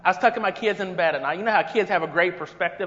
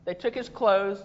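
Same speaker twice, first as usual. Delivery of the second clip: scripture reading. Acted. Reads the Good Samaritan passage.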